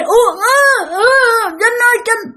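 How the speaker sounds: high, strangled crying call; choked crying call. Retold or imitated. Girl trapped in sleep calling Trinh, choked cry. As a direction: try to call out while paralyzed.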